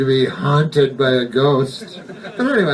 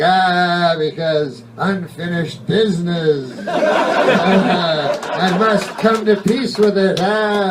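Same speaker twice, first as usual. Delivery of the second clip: whiny ghost; 3 semitones higher, slower than usual. Retold or imitated. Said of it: "And they're whiny".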